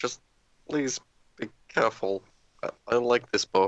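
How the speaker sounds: hushed stage half-whisper. Handing the bow to another character before the shot: half-whisper. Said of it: "just sort of whisper".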